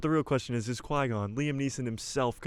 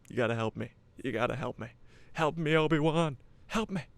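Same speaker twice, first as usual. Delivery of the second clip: pleading Leia; 4 semitones higher than usual. Retold or imitated.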